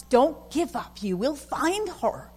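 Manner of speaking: slow, solemn and assured; slow voice of God urging the driver on. Retold or imitated. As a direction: speak it slowly like a gentle divine command. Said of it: "but God says".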